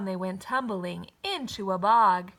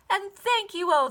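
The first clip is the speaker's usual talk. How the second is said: grateful; 8 semitones higher, 3 dB louder than usual. A narrator's reading. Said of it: "the grateful witch cried".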